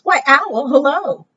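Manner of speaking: high, singsong mouse voice; storybook mouse saying hello; mouse's friendly greeting. Acted.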